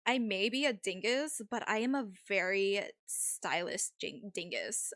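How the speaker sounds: lightly voiced Valley girl; a hint of Valley-girl accent. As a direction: play it as a mild Valley girl. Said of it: "This accent is definitely".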